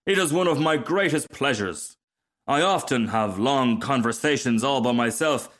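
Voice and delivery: lightly voiced conceited rocket; self-important rocket. Rocket explaining himself to a dragonfly, mildly conceited. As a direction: boast with complete self-assurance.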